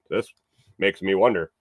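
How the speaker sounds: coffee grounds in mouth; mouth full. Real, not acted. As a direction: talk around grit in the mouth. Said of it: "I got coffee ground in my mouth".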